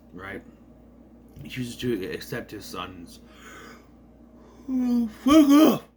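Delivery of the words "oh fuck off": loud, drawn-out irritated snap; real annoyed yell; annoyed outburst. Real, not acted. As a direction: blurt it out, fed up. Sudden outburst at interruption.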